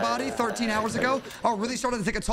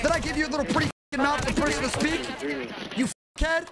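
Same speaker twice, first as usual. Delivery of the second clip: fast, higher mock-furious rant; mock tirade; 4 semitones higher than usual. Streamer trash-talking a teammate in mock fury. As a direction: rattle off a hammed-up insult.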